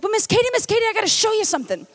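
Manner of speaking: lightly voiced eager toddler; little girl voice. Babysitter quoting the little girl, lightly childlike. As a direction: pipe up like an excited three-year-old. Three-year-old girl quoted.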